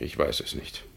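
breathy whispered denial; soft whispered I don't know. Acted. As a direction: barely voice it, afraid to admit. Intimate seduction scene.

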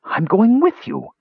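put-on high, slow urgent young voice; young nephew voice. A narrator's reading. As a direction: raise the voice up high, insistent. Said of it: "Basalt hissed quickly".

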